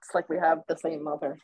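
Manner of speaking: real laugh through the words. Real, not acted. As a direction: laugh it out in disbelief. Laughing at shared experience.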